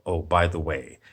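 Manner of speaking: a hint of a soothing streamer voice; mock calm streamer. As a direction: parody a laid-back YouTuber thanking donors. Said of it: "very calm and peaceful about it".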